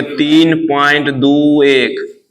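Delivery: each digit of "तीन point दो एक" given on its own; "तीन पॉइंट दो एक" spelled out one figure at a time. Shown as a demonstration. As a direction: read out "दो एक" as two separate digits. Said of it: "एक digit पढ़ेंगे".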